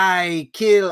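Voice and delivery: hammed-up vague Russian accent; pseudo-Russian accent. Quoting the cat woman to co-host, mock Russian accent. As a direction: put on a rough fake Russian-European accent. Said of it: "some kind of, like, pseudo-Russian, uh, European accent".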